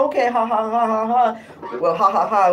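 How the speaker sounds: taunting imitation laughter; mocking fake laugh. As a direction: laugh at him to needle him. Mocking his laughter back.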